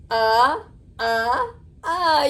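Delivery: short uh sound repeated, clearly shaped; vowel sound demo. Shown as a demonstration. Teacher showing a child the letter U sound, deliberately. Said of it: "U says".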